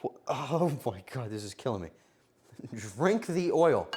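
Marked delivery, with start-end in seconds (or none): none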